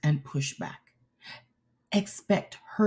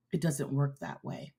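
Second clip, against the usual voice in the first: softer and lower, reining it back in; calmed down; 7 semitones lower, 10 dB quieter than usual. Real, not acted. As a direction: pull back after getting excited. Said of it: "No, I'm getting excited".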